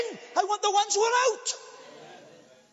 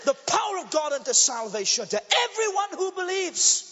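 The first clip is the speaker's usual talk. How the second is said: preaching loud; 3 dB louder than usual. Real, not acted. Preacher's climax.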